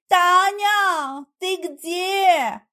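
high, loud searching shout; calling out. A narrator's reading. Heroine runs round looking for Tanya, shouting. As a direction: call through the house for someone. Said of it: "стала метаться по дому с криком".

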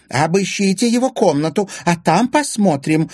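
high, loud, malicious command; spiteful. A narrator's reading. Anfisa ordering his room searched, spiteful. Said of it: "злобно заявила Анфиса".

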